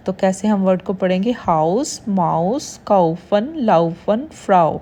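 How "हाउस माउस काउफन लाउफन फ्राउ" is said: teacher's word list, काउफन and लाउफन with "au" as "ow"; "ow" sound. Shown as a demonstration. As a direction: say हाउस, माउस, फ्राउ with a clear "ow" glide. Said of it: "तो आओ की sound देगा". (हाउस, माउस, फ्राउ में आओ की sound)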